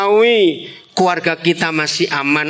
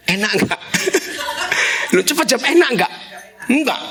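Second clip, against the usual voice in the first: normal talking voice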